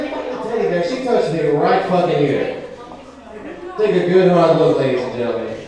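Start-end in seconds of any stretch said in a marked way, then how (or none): none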